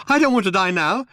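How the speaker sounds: wild, high panicked yell. A narrator's reading. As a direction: yell wildly for your life. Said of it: "he yelled".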